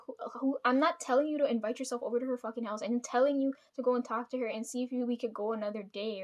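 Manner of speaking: pissed-off retelling. Retold or imitated. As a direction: replay your annoyed insistence, pressing each point. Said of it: "I was so pissed".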